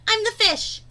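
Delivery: lively storybook read-aloud with bouncy rhyme; reading to children. Acted. Teacher reading a beach picture book aloud to her students, lively storybook voice.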